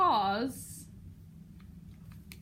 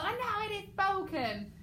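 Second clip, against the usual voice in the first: mild outburst; 8 semitones higher than usual. Shown as a demonstration. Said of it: "so he's done the whole".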